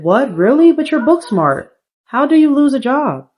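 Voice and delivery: a mother who can't believe it; shocked mom. Pretend. Mom sim shocked at news.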